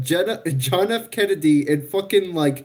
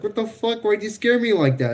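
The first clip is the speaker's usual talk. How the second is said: higher-pitched, retold indignation; mock indignant; 5 semitones higher than usual. Retelling a night scare by a sister, mock indignant. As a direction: protest in a raised pitch without shouting.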